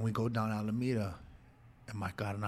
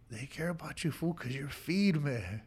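tender reassurance; 4 semitones higher than usual. Retold or imitated. Telling his sobbing brother why people care, tenderly. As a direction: gently press it home, drawing out the words.

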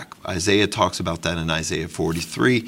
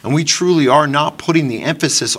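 fervent preaching; 4 semitones higher, 3 dB louder than usual. Real, not acted. Preaching rebuke to congregation.

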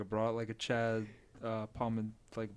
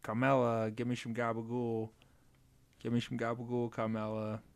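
Tony Soprano. Retold or imitated. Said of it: "I'd do it like, you know, Tony Soprano".

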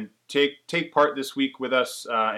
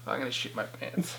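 trying not to laugh. Real, not acted. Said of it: "as soon as I make eye contact".

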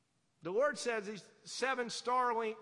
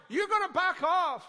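forceful challenge; 5 semitones higher, 6 dB louder than usual. Real, not acted. Pastor challenging congregation.

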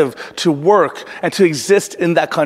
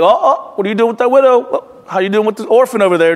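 hammed-up high mock threat, teasing a wrongdoer; mock menacing God; 3 semitones higher, faster than usual. Pastor pretending God holds a sword to a sinner's neck, mock high menace. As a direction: play a sword-waving God half as a joke, voice pitched up. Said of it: "He's not literally carrying a sword and putting it over your neck like".

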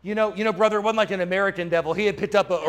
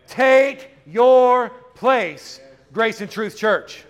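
preaching exhortation; 5 dB louder, much slower than usual. Real, not acted.

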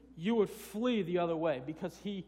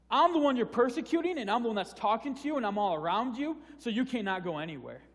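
preaching with force; 4 semitones higher, 4 dB louder than usual. Real, not acted. Preacher driving home the point.

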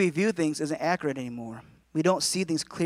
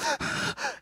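mock tearful sigh; 8 dB quieter than usual. End of the mock crying act.

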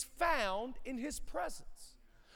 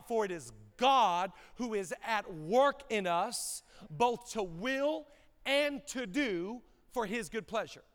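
slow scripture reading; slower than usual. Real, not acted. Reading verse with emphasis.

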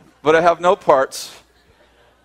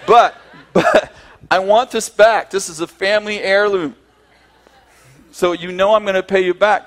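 earnest plea; 5 semitones higher, 4 dB louder than usual. Retold or imitated. Begging the supplier to keep his grandfather's watch, earnest plea. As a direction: beg to get the heirloom back.

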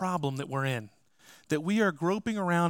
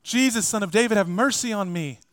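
louder cry; 5 semitones higher, 4 dB louder than usual. Retold or imitated. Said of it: "he just says it even louder".

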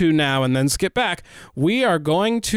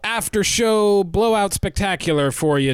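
hard sell ad; 4 semitones higher than usual. Pretend. Parody sale ad pitch.

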